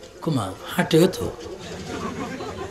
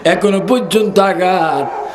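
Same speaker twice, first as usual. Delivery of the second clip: retold tearful mother; 4 semitones higher than usual. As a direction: intone her grievance like a lament. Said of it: "চোখের পানি বুক বাসিয়ে বলে".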